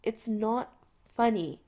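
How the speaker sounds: tight, slow, held-back voice. Acted. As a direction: say it tightly, through restraint. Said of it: "McCoy says tightly".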